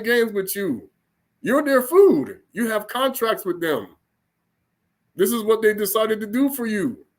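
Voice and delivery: God speaking. Acted. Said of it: "The Most High said".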